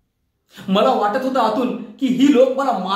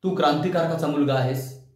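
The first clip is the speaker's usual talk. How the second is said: low, lightly voiced public reminder; a hint of solemn instruction, pitched low; people's admonition; 5 semitones lower, 3 dB quieter than usual. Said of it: "लोकांनीही तेच सांगितलं मला". (लोकांची खालच्या पट्टीतली हलकी समज)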